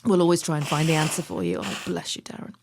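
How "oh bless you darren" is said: ordinary talk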